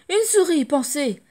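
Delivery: very high, loud startled cry; loud terrified squeal; panicked shriek. Acted. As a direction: shriek at the sight of a mouse.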